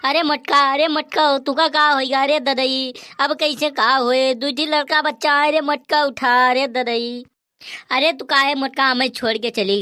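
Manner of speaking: hammed-up grief over the wife; lamenting. Husband laments dead wife. (नाटकीय शोक भरा विलाप)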